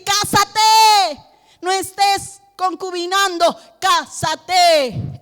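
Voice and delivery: put-on a preacher telling young people to marry, urgent; urgent exhortation. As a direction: urge the young couple firmly. Preacher voicing advice to youth.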